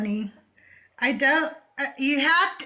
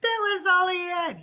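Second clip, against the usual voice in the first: laughing; 4 semitones higher than usual. Real, not acted.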